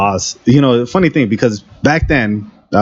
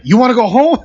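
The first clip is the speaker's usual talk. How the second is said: boss voice; 11 semitones higher than usual. Retold or imitated.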